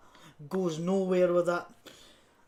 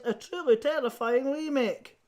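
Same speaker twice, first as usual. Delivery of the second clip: mock trailer quote; 5 semitones higher than usual. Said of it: "And it says".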